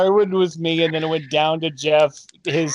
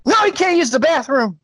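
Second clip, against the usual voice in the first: laughing; 6 semitones higher than usual. Retold or imitated. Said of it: "Kevin Hart talking in his sleep".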